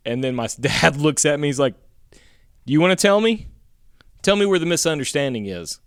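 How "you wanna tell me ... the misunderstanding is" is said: higher, fast challenge; hint of angry dad. Father challenging the neighbor about his son, angry. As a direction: press him for answers.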